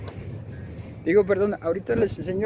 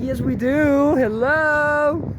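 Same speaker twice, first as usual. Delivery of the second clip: higher, louder mock-exasperated comeback; playfully indignant, raised-voice retort; 6 semitones higher, 4 dB louder, much slower than usual. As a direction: answer as if it's blatantly obvious. Retorts to people's silly question.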